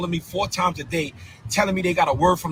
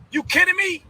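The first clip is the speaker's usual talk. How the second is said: incredulous; 11 semitones higher than usual. Real, not acted. Outraged disbelief.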